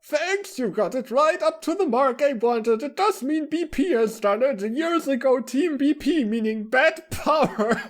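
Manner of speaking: very high-pitched character voice, breaking into laughter; squeaky-high dialogue, cracking up mid-line; story character. Acted. Character thanking Frank about Team B P, very high voice dissolving in laughter.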